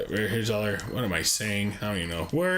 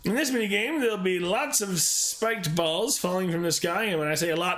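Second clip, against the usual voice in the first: lively, higher read-aloud voice; game instruction read; 6 semitones higher than usual. Acted. Player reads mini game instructions, lively read-aloud. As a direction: read it out like an upbeat tutorial host.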